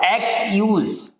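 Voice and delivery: "एक्यूज" drawn out slowly, rhyming with use; pronunciation demo. Shown as a demonstration. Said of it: "जैसे word होता है ना यूज". ("एक्यूज" धीरे से, यूज की तरह)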